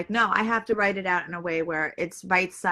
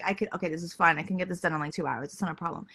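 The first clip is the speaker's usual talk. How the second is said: calm reassurance; 3 semitones lower, 6 dB quieter, faster than usual. Retold or imitated. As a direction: lower and softer, settling down. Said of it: "I'm like".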